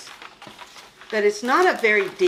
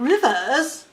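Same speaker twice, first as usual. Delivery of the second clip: mock British accent; 4 semitones higher, 4 dB louder, much slower than usual. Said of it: "You're out there saying".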